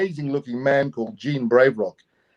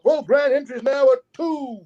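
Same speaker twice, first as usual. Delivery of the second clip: powwow emcee; 13 semitones higher than usual. Retold or imitated. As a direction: call it out over the PA like an MC. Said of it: "a powwow M C or announcer".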